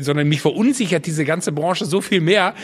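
ordinary talk, nothing marked

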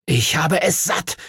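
fed up, pitched high; blurted out. A narrator's reading. Henry to his dragon, blurting it out. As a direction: burst out with frustration. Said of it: "stieß Henry hervor".

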